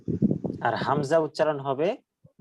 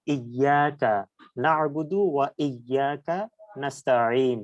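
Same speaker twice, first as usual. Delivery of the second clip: slow recitation; slower than usual. Shown as a demonstration. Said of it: "জিহ্বার মাঝখান দেখেন".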